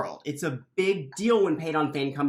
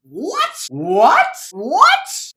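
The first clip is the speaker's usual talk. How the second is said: much higher and louder stacked whats; shocked; 8 semitones higher, 10 dB louder, much slower than usual. Acted. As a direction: gasp out each what in disbelief. Villagers hear Aes Sedai involved.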